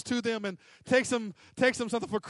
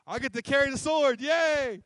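mock excitement; 4 semitones higher than usual. Mocking the armor bearer's small role.

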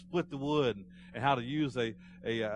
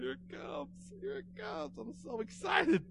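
very high, squeaky mock excitement; excited boy; slower than usual. Ninth grader expecting his first pay, imitated giddy excitement. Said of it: "He was so excited".

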